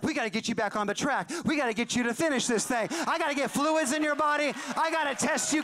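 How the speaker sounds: lightly acted excitement, rising as it goes; pumped up. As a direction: imitate a doctor rallying a patient. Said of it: "like, so pumped up about it".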